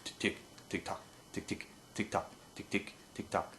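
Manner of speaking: voiceless, soft tongued tick tock; whispered tick-tock. Shown as a demonstration. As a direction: mouth the duck call rhythm. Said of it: "feed chuckle basically is going tick".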